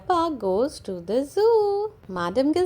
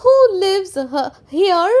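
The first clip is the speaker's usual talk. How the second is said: much higher, louder stammer; nervous teacher asking; Madam Gazelle nervous; 9 semitones higher, 11 dB louder than usual. Acted. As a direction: falter on here. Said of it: "Madam Gazelle".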